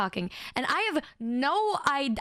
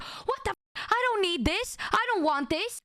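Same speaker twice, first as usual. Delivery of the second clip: disgusted rejection; 6 semitones higher than usual. Retold or imitated. Friend rejects gift, retold.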